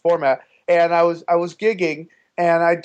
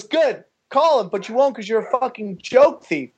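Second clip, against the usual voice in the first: imitated dare in a raised pitch; taunting heckler; 6 semitones higher than usual. Heckler daring the comic to call, mock high taunt. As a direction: goad him like a heckler.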